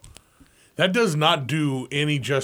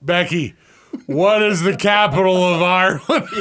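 laughing mock question; 6 semitones higher, 7 dB louder than usual. Mock quiz question to Becky.

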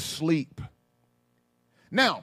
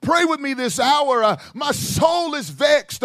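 pleading Jesus; slower than usual. Retold or imitated. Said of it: "He's pleading with them".

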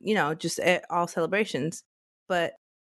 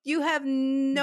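higher, scoffing disbelief; hammed-up scoff at an obvious lie; mock incredulous; 7 semitones higher, slower than usual. Teasing the man about his girlfriend, mock disbelief. Same mocking reply continued.

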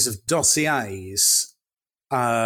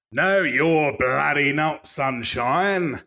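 put-on slow, lightly done Cockney accent; a hint of a Cockney tough; slower than usual. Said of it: "That's a Cockney".

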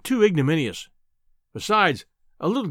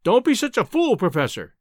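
loud, high warning cry; 5 semitones higher, 3 dB louder than usual. Acted. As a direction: call out sharply in alarm. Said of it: "I cried".

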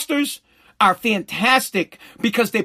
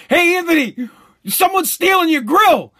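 neighbor yelling; 6 semitones higher than usual. Retold or imitated. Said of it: "The guy Pat's like".

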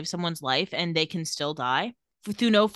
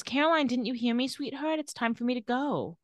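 higher-pitched, lightly acted mother; gentle mom voice; 4 semitones higher than usual. A mother tells her daughter it is time, gentle mom voice.

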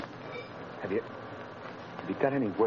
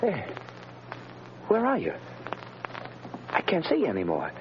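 calling out; 12 semitones higher than usual. Acted. Prisoner calls to vanished voice.

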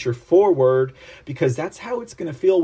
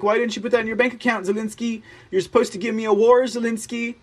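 mock Biden; 7 semitones higher, faster than usual. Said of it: "he was like".

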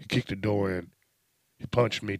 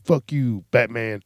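loud retold yell, pitched up; defiant drug dealers; 4 semitones higher, 9 dB louder, slower than usual. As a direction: shout back like cornered dealers. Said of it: "And they were like".

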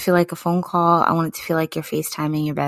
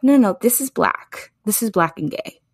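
mock emphatic diva, first no pitched up; sassy insistence, lightly voiced; imitating a singer; 5 semitones higher than usual. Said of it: "she was just like".

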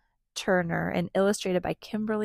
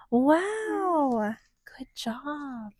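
whispering; 6 semitones higher, much slower than usual. Acted. Quoted praise in the book.

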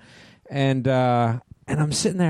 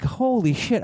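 retold amazed realization; 8 semitones higher, slower than usual. Retelling his moment of recognition.

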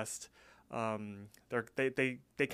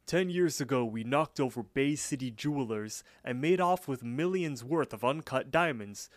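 Louis. Retold or imitated. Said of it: "Louis chimes in".

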